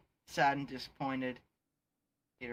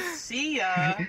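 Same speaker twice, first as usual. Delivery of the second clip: high, loud cartoonish call; shouted farewell; 11 semitones higher, 9 dB louder than usual. Spider-Man leaving the rescued kids, shouted farewell. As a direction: holler goodbye way up high. Hero calls out while swinging away.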